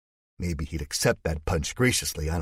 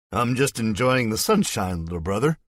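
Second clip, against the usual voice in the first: tipsy and goofy; 4 semitones higher, 4 dB louder than usual. Acted. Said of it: "then hiccups".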